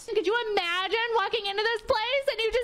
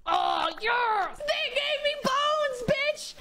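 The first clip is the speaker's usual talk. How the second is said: excited yes; 8 semitones higher, slower than usual. Real, not acted. Excited about the witch build.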